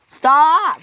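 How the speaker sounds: very loud, high yell; urgent shout. Acted. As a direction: yell to halt before a crash. Henry about to hit Hank.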